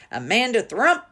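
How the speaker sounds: loud furious call across the playground; shouting. A narrator's reading. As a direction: yell her name, high and loud. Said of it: "she was shouting".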